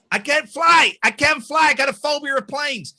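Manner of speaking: high, loud panicked whine; panicked pleading. Retold or imitated. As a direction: plead in a panic about flying. Quoting a panicked movie character.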